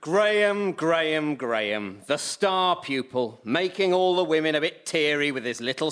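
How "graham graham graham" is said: name repeated, falling dreamily; swooning sighs. Acted. Dad swooning over the star pupil, dreamy sighing name. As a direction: savour his name like a crush.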